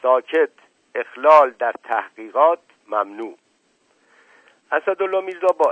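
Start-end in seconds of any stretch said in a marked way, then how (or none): 0.0-3.4 very loud official order; authoritative shout. A narrator's reading. Officer forbidding interference in his investigation, shouted order. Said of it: "فریاد زد".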